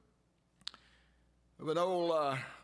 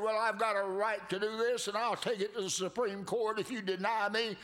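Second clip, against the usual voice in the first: a lightly voiced indignant claimant, raised; hammed-up demanding rights; mock entitled demand; 5 semitones higher, 3 dB louder than usual. Preacher mocking a woman demanding her rights, lightly indignant.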